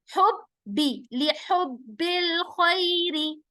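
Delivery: हुब्बी with a hard doubled ब्ब; हुब्बी stressing the doubled ब. Shown as a demonstration. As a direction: press ब्ब firmly twice. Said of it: "बा सख्ती के साथ दो बार".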